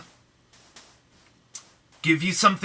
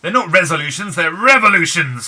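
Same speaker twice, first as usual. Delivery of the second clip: playful rallying call; 2 semitones higher, 7 dB louder than usual. Acted. Jokey rallying call to viewers.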